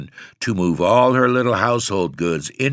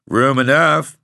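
thick rustic tones; 5 semitones higher, 5 dB louder than usual. A narrator's reading. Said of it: "in his thick, rustic tones".

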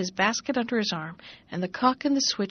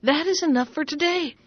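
calling out; 7 semitones higher than usual. Acted. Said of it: "called out between his hops".

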